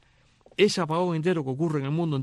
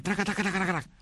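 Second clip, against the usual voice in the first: typing noise; 5 semitones higher, much faster than usual. Retold or imitated. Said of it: "hace así".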